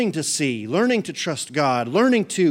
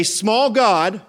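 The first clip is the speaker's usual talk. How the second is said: call and repeat; 4 semitones higher, 5 dB louder, much slower than usual. Shown as a demonstration. Leading congregation in call and repeat.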